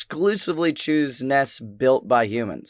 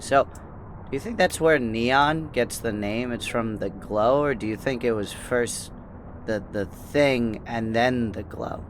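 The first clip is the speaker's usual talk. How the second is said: quiet musing; 3 semitones lower, 5 dB quieter than usual. Acted. Player voices character quietly.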